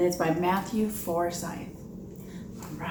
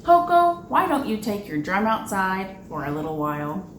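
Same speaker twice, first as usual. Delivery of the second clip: lightly voiced father frog; 4 dB louder than usual. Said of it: "her father said".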